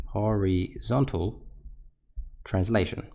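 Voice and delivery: drawn out very slowly, word by word; slow emphatic repeat. Shown as a demonstration. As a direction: spell the term out slowly for students. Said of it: "teacher repeats key term".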